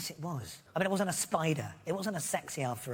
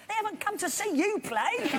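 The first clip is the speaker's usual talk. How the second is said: retold teasing; 3 dB louder than usual. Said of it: "He said".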